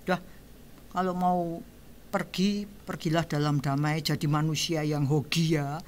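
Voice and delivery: soft, low prayer for the dying; farewell blessing. Retold or imitated. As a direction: gently send them off with a blessing. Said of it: "kita semua doain".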